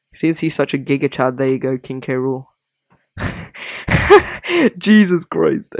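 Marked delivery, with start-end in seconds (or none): 3.2-5.7 high wheezing laugh. Real, not acted. Laughing at his own edit.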